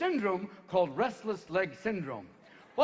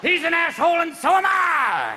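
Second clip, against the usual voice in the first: shouting; 9 semitones higher, 8 dB louder than usual. Acted. Ass voice shouting.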